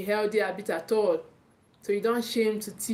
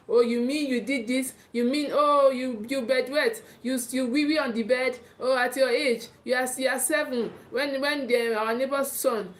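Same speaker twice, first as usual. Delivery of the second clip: mock shaming parent; 2 semitones higher than usual. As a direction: imitate a parent shaming a child in public, incredulous and belittling. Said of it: "pouring shame on them".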